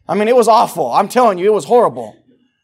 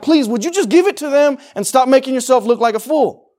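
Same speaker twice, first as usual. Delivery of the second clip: higher-pitched acted begging; exasperated pleading; 6 semitones higher than usual. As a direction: implore a parent who keeps caving in. Acts pleading with indulgent parents.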